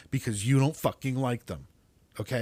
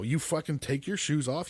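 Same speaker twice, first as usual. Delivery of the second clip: ordinary delivery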